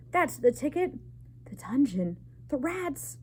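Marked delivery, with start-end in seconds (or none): 0.1-0.9 crowd shout. A narrator's reading. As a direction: cheer the verdict from the back. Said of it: "shouted a mouse in the crowd".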